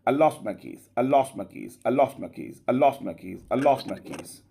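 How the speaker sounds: "I lost my keys" with a quick weak I, stress on lost; short reduced I. Shown as a demonstration. Teacher drilling the short form for the class. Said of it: "shorter one".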